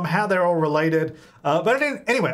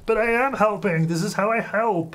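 innocent helper; 5 semitones higher than usual. Pretend. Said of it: "It's like".

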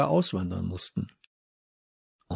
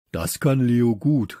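mild, slow exclamation; calling out; 4 dB louder than usual. A narrator's reading. Friend chimes in about Leo, mildly calling out. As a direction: chime in with a drawn-out mild call. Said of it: "rief Samson".

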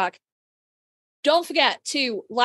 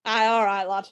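broad northern "Aye, all right, lad"; Yorkshire accent; 2 semitones lower than usual. Real, not acted. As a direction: slip into Yorkshire. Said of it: "There was so much Yorkshire in that".

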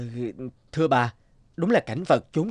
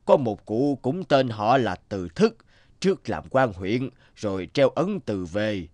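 lightly voiced old villager; 3 semitones lower than usual. Old villager answers Từ Thức.

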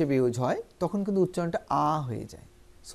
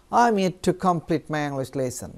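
slow, careful English model sentence; slow model reading; much slower than usual. Shown as a demonstration. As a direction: read it out slowly like a teacher. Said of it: "উচ্চারণটা করে আসি". (ধীরে, স্পষ্ট উচ্চারণে)

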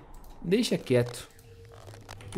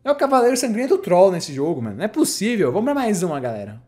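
raging gamer; 4 semitones higher than usual. Real, not acted. Ranting about troll knight.

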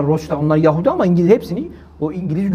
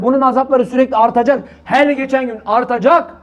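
higher, urgent pleading sermon voice; impassioned preaching; 6 semitones higher than usual. Acted.

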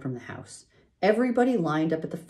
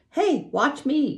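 higher, slow show-off yell; boy yelling to be watched; 13 semitones higher, 5 dB louder, slower than usual. A narrator's reading. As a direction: call out for attention. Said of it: "yelled Avery".

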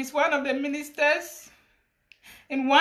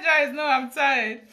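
slow, drawn-out tired refusal; lightly acted exhaustion; mock-weary man; slower than usual. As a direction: imitate a worn-out lover begging off. Repeats the worn-out minister's refusal.

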